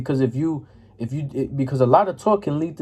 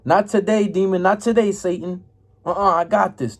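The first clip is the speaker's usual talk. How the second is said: defiant rebuke; 5 semitones higher than usual. Retold or imitated. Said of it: "the Christians be like".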